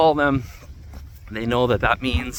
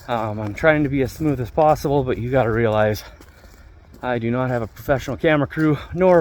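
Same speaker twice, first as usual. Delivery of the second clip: talking while bouncing over rough ground; on a bumpy road. Real, not acted. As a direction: voice jolted by a bumpy ride. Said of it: "you're gonna have to excuse the bumpy ride".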